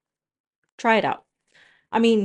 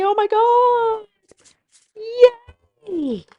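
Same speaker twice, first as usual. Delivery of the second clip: teary joy; 13 semitones higher, 5 dB louder, slower than usual. Real, not acted. Overcome finishing the Lego bus.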